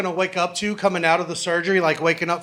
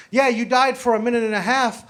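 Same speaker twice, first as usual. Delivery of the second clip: lightly voiced cocky doctor, pausing before the punchline; a hint of a God-complex surgeon taking credit; casual, self-satisfied bedside boast; smug doctor. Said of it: "And this is how he does it".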